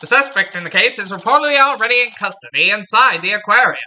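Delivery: hammed-up thirties radio newsman; 1930s radio announcer. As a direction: announce it like a vintage wireless bulletin. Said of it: "nineteen thirties, uh, radio announcer voice".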